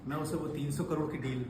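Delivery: gloating tycoon villain. Acted. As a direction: savour every boast like a movie villain.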